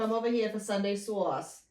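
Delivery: Long Island grandma calling family to dinner; a hint of a Long Island nonna inviting you in; teasing impression of a Long Island grandmother. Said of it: "Long Island grandmother".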